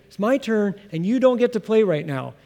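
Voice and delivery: lightly voiced child laying claim to the game; bossy kid claiming his turn. Preacher voicing a boy to other kids, firm and possessive. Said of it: "it's a strong statement".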